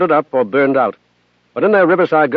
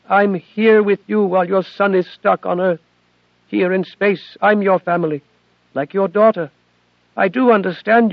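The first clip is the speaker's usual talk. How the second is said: put-on higher, earnest young machine voice; AI girl Athena; 6 semitones higher than usual. Athena explains to Bud why she hid it, earnest and higher. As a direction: plead gently as a devoted daughter.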